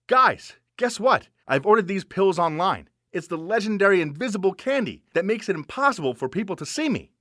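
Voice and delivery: lively, put-on big reveal; pretend excitement. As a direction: sell it like amazing news for an eavesdropper. Pretend skit announcing candy.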